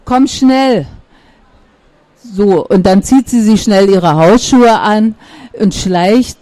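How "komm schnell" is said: a quick, pressing call; urging. A narrator's reading. Kitten Pizzi rushing Jam, light urgency. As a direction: hurry her along. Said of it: "drängt Pizzi".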